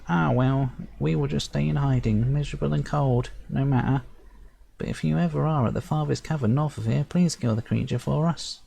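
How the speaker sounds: high fairy voice, mildly mopey; disappointed sprite chief. Acted. Sprite chief disappointed the beast still lives, high and mopey. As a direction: sigh it out like a let-down tiny chief.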